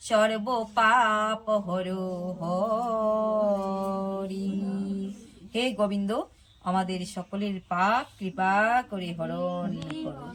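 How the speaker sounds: measured prayer recitation; devotional prayer. Acted. Preacher praying for the devotees in an even recitation. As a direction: recite like a humble plea for mercy.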